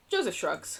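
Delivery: ordinary talk, nothing marked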